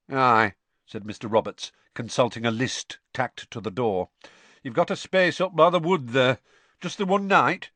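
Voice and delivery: lightly voiced campsite owner, plain and unexcited; a hint of a gruff Muggle. Mr Roberts flatly returning the greeting, lightly voiced. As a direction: answer without enthusiasm. Roberts checking his list.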